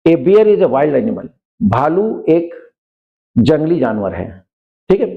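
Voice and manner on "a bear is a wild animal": slow, careful dictation pace; slow example sentence. Shown as a demonstration. Teacher reading an example to students, slow and careful. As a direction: spell it out slowly for the class. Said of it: "example sentence read slowly".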